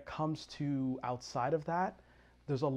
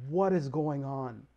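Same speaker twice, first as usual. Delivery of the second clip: retold amazement; 6 dB louder, slower than usual. Retelling amazement at Somali successes.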